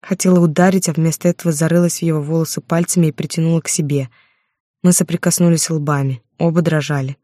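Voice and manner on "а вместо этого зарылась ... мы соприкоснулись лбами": ordinary delivery, nothing marked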